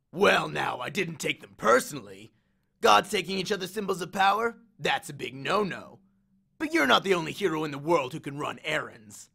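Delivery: lightly voiced cocky war god; swaggering Ares, amused. Ares grins at Percy's accusation, lightly cocky. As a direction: toy with the hero, a touch of swagger.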